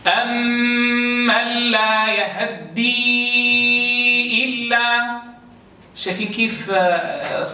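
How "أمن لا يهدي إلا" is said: chanted slowly, the fatha on يهدي snatched short; ikhtilas of the fatha. Shown as a demonstration. Teacher chanting Abu Amr's reading, fatha snatched. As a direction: recite أمن لا يهدي with a quick, faint fatha on the ha of يهدي. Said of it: "فينطقها هكذا".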